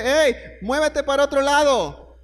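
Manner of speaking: a hint of God hurrying Joseph off; God's command. Dios ordena a José moverse. (Dios ordena a José que se vaya, voz más aguda)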